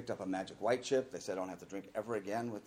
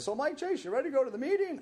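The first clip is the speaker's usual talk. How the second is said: cheerful coworker; 5 dB louder than usual. Retold or imitated. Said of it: "he says".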